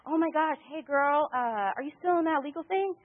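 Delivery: lightly hammed-up long-lost-pal hello; gushing greeting. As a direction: imitate a suddenly friendly acquaintance. Acts out suddenly friendly old prospect.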